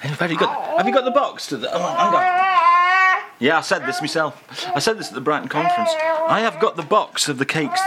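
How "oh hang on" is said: laughing. Real, not acted. Laughing at cake stuffing.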